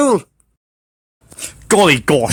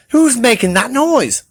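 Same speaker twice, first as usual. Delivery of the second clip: shouted; 6 semitones higher than usual. Acted. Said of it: "shouted Badger".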